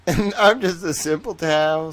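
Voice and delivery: slow, playful Southern drawl; put-on Southern accent. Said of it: "now it comes out from time to time".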